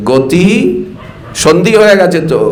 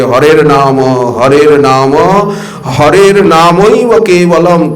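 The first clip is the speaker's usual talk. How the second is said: verse recitation; 2 semitones lower, slower than usual. Acted. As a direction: draw the holy name out slowly.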